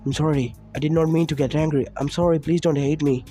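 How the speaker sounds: understated tearful plea; a hint of a crying child; mild begging. Boy begging his mother while crying, mild. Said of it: "the boy begged as he cried".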